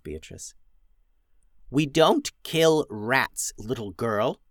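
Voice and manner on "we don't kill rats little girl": very slow, measured goblin voice; lightly voiced goblin talking down to a child; slow goblin scolding. Ramona lectures Beatrice slowly and sternly. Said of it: "said Ramona".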